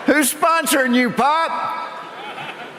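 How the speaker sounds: loud jeering heckle at a passing rider; mocking shout at cyclist. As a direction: yell it like heckling from the roadside.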